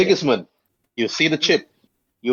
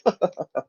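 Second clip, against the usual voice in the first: short, higher-pitched laugh in character; acted laugh; 6 semitones higher than usual. Old man at a farmer playing cards, acted laugh. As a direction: play the card player's brief laugh. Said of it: "He laughed".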